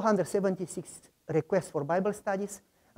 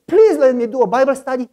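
retold pleading; 5 semitones higher, 12 dB louder, faster than usual. Pleading at the door.

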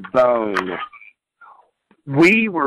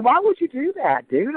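pitched way up in disbelief; high, stunned demand to a rival wrestler; incredulous; 10 semitones higher than usual. Retold or imitated. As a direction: ask it like you can't believe it. Retold confronting Randy backstage.

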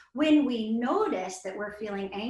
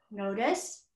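calm exhale; 5 dB quieter than usual. Shown as a demonstration. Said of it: "breathing exercise demo".

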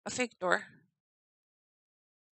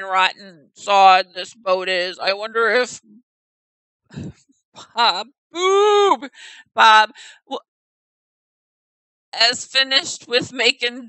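a louder, badly faked Nordic accent; awful Nordic accent; 8 dB louder than usual. Player reading the sailor in a bad Nordic accent. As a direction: ham up a poor Nordic accent. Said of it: "awful attempt at a Nordic accent".

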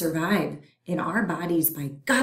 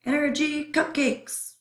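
high, greedy germ voice; hungry germ voice; 8 semitones higher than usual. Acted. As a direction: savor the word cupcakes. Germ refrain.

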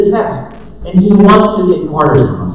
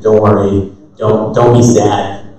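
put-on tender comfort to a child; 9 semitones lower than usual. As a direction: comfort a crying child gently. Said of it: "It's like a tender".

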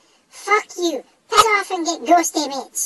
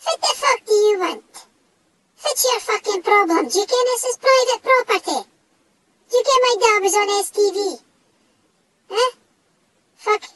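a raised, confrontational challenge; indignant, raised-voice tirade; angry yelling; 4 semitones higher than usual. Acted. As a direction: square up to the ghost and demand answers. Yelling at a passing ghost.

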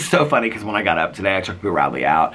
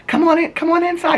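loud, high holler to bring a dog in; imitated calling out; 5 dB louder than usual. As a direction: call across the backyard like the neighbors.

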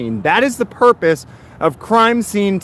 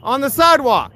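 higher, agitated arguing; angry pleading; 4 semitones higher than usual. Real, not acted. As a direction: push back, irritated and insistent. Arguing with officers.

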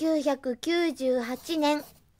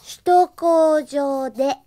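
reading report aloud. Acted. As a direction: read your duty report carefully, word by word. Reads her written report aloud.

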